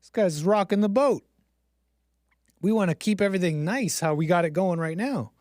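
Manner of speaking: mock pearl-clutching outrage; lightly voiced indignant religious elders; scandalised Pharisees. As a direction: play the fussy establishment, affronted by a troublemaker. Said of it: "the religious people of the time".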